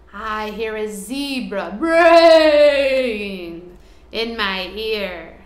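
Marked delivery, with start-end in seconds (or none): 0.1-3.8 slow and louder, drawn out; braying. Acted. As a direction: stretch it like a braying zebra. Reading zebra line to children.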